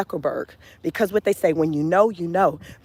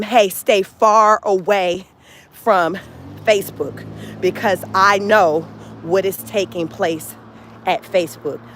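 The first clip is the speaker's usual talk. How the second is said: stern warning; slower than usual. Retold or imitated. Parent executive warning his kids.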